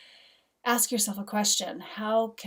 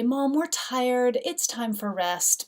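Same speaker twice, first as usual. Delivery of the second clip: put-on dreamy kid voice; 4 semitones higher, 5 dB louder, slower than usual. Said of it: "Then they would say".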